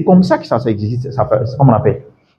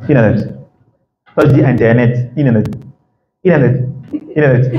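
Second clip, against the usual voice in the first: American accent. Shown as a demonstration. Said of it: "lui va dire".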